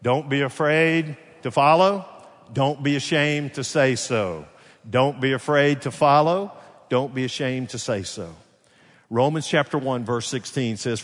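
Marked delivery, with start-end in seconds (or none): 0.0-8.3 loud, slowed-down call for the crowd to echo; leading a repeat-after-me. Shown as a demonstration. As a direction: call it out firmly, word by word. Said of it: "I want you to repeat it after me".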